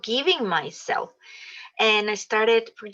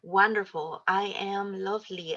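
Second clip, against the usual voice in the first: soft affirmation; 4 dB quieter than usual. Shown as a demonstration. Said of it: "just look at yourself and say".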